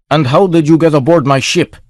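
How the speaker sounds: captain interrogating a stranger on his ship, suspicious. Acted. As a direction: grill him like a wary captain. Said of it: "The voice grated with suspicion".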